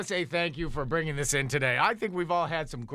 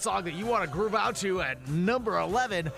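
swooping DJ patter; put-on radio announcer voice. Radio host plugging travel song requests, put-on announcer voice. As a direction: sell the request line like a hyped-up radio host. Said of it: "If you don't stop that voice".

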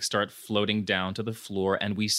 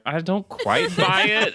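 skeptical; 7 semitones higher than usual. Retold or imitated. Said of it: "I was like".

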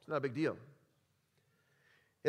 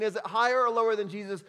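game show crowd shouting, a bit raised; hammed-up Price is Right yell; mock audience scream; 4 semitones higher, 5 dB louder than usual. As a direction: call it out like a studio audience. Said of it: "you're screaming".

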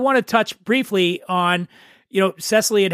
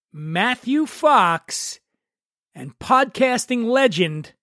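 quiz host; slower than usual. Real, not acted. Quiz host reads out candidates.

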